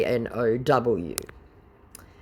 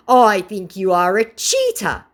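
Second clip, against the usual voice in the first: lightly voiced scammer; 6 semitones higher, 6 dB louder than usual. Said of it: "said the scammer".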